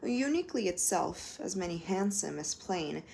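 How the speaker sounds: measured, expressive poetry recital; poem reading. Acted. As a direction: savour each image like a performance. Reads a Duffy poem aloud.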